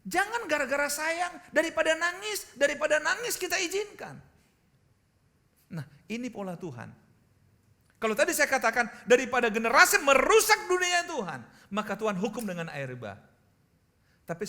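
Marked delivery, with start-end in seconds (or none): 0.1-4.2 forceful preaching. Real, not acted. Preacher warning parents against indulging a child, real forceful exhortation. 8.0-13.2 loud, high-pitched pulpit cry; forceful preaching. Real, not acted. Preacher proclaiming judgment on a corrupt generation, forceful shout.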